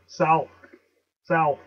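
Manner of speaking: "South" as SOWLTH; isolated "South", a dark l tucked inside. Shown as a demonstration. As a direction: punch "South" with an l before th. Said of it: "You hear the L?".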